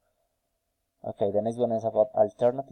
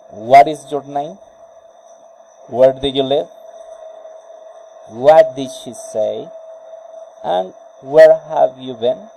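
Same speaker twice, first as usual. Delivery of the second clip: a louder, polite, interested ask; friendly interest; 3 semitones higher, 9 dB louder than usual. Shown as a demonstration. Teacher modelling a friendly polite question, louder. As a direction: sound keen and courteous. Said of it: "about friendly interest, politeness".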